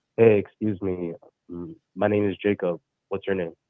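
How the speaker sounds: soft, quiet, soft-spoken delivery. Showing how he introduces himself to a woman; talking real soft. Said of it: "you fucking talk real soft".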